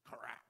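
short unvoiced crack noise; imitated rifle crack. Storyteller imitates the shell loaded behind the man, sharp crack. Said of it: "he hears this".

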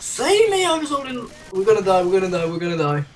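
mock panic. Hammed-up panic, fading.

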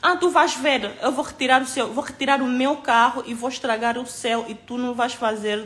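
imitating a threat.

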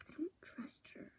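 hushed, quick conspiratorial whisper; secret whisper. Real, not acted. Friends plot in secret about the visitor, whispering. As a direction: whisper fast so she won't hear. Secret talk behind her back.

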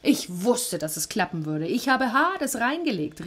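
a lightly voiced triumphant cry. Sisyphos gloating that he fooled Hades, triumphant. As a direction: crow about the trick. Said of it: "rief Sisyphos und lachte".

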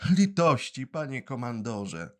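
high urgent plea; pleading. Acted. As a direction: beg again. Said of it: "zaczął mówić błagalnym tonem".

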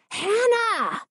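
shout. A narrator's reading. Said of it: "Its whisper became a shout".

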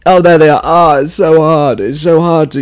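hammed-up tearful self-pity; fake tears. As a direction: wail it as a badly faked cry. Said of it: "a minute to fake tears".

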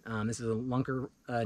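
ordinary delivery

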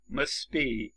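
"must be" with the t left out, mus-be; t dropped. Shown as a demonstration. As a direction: glide from s to b in "must be", no t.

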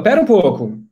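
indignant. Acted. Dioniso objects to his slave's good luck, indignant. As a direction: cut in with a touch of revolt. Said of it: "O Dioniso fica revoltado".

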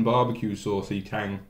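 eating from fingers; fingers in mouth. Real, not acted. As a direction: hand covering mouth. Seen 0: Hand brings food to mouth, fingers at lips around 1.4-2.7s.

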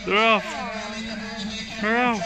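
loud, high race calling; excited race call. Real, not acted.

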